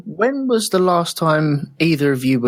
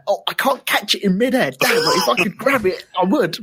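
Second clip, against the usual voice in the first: a lightly voiced, higher, panicky chase after an escaped word; mock frantic grab; 7 semitones higher than usual. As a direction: play the swear word fleeing out of reach, lifted up. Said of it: "it was like".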